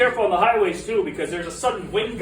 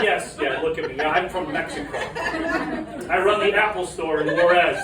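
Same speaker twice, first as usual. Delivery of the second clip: sarcastic reply; 3 semitones lower than usual. Retold or imitated. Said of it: "I'm like".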